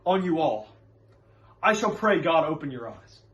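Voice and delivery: lightly acted urgent, reasoning preacher; Reverend Hale. Reverend urges Proctor to seek the cause, mildly urgent. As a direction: press the point with mild fervor. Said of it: "Hale is talking to John Proctor".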